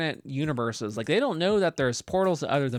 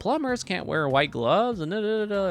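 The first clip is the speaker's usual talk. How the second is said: higher-pitched mock parental nagging; disapproving parents; 6 semitones higher than usual. Parents to Mario and Luigi about the family business, mock disapproval. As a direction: imitate parents belittling a career choice. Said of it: "Mario and Luigi's parents".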